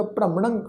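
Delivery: ਭ੍ਰਮਣੰਗ with half r and nasal ng; nasal ending. Shown as a demonstration. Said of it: "ਨਾਸਿਕ ਉਚਾਰਨ ਹੋਏਗਾ".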